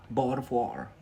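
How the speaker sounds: bottle of water with a Scottish glottal stop, "Bottle" as bo'le and "water" as wa'er; a quick Scottish take on "Bottle of water"; Scottish accent. Shown as a demonstration. A learner tries "Bottle of water" in a Scottish accent. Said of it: "Say bottle of water in Scottish".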